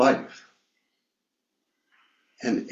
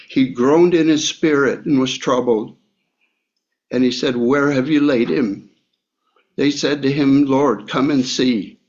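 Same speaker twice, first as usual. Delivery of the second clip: steady, slightly raised Bible reading voice; scripture reading; 3 dB louder than usual. Acted. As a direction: read the verses out to the church. Continues reading scripture aloud.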